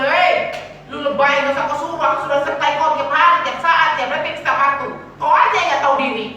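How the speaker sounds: lightly voiced God, mock scolding; a hint of God rebuking a whiny believer. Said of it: "kalian dengar Tuhan".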